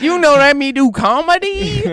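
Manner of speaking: put-on high caricatured Asian accent; mock Asian accent. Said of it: "you guys do an Asian voice".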